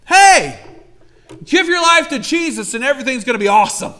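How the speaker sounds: high, loud, fast hype-preacher pitch; salesy preacher. Retold or imitated. Mocking preachers who promise an easy life, fast hyped-up pitch. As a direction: sell it like a slick preacher. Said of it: "there are preachers who will say".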